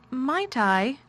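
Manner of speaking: quavered. A narrator's reading. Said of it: "quavered Mary".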